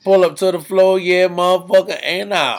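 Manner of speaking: loud slurred rap imitation, a bit slowed at the end; a rapper's lisp. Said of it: "with a rapper's lisp".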